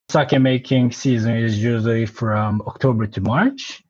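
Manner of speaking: ordinary talk, nothing marked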